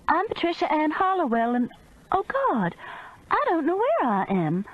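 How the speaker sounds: losing it on the phone; panicked. Acted. Narrator panics giving details to the operator.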